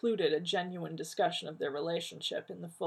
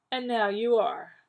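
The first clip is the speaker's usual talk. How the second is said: slow and deliberate; measured, careful reply; 4 semitones higher, 7 dB louder than usual. A narrator's reading. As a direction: take each word slowly. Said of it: "John said slowly".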